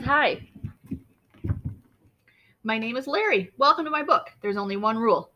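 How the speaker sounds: lightly voiced cheerful book character; bright friendly greeting to the reader; Larry's voice. Larry greets the reader, cheerful and lightly voiced. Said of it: "It says".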